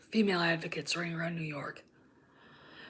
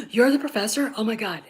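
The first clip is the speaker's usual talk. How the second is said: mock shock. Mocking Miranda realizing her mistake, hammed-up shock. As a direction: play Miranda caught out, mockingly.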